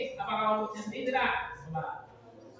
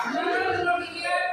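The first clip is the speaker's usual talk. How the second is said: calling out; 5 semitones higher than usual. Real, not acted. Teacher calms noisy class.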